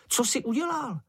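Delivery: high-voiced small creature, startled; shrill-pitched worried question; Čenich's alarmed question. A narrator's reading. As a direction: ask it high and anxious as Čenich. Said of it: "vykřikl Čenich".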